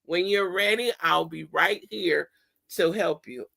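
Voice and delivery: put-on softly reassuring the child; gentle, patient and steady; calm reassurance. Shown as a demonstration. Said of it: "then you can say".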